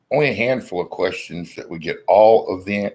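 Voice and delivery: hiccuping mid-sentence; hiccups. Real, not acted. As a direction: talk through hiccups. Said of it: "I got the hiccups a little bit".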